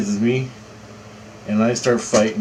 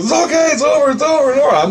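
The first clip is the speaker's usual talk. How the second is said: high, loud, urgent reassurance; voicing the girl; 5 dB louder, faster than usual. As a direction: imitate her insisting over the panic. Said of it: "And she goes".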